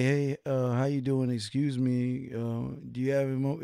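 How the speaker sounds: slow, beaten, hesitant, defeated tone. Imitating how the caller approaches a woman: imitating a defeated-sounding approach. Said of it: "when you sound defeated".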